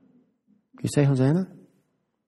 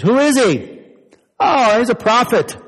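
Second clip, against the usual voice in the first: crowd voices; 8 semitones higher than usual. A narrator's reading. People in Jerusalem asking and answering, lightly voiced. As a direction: voice the curious crowd.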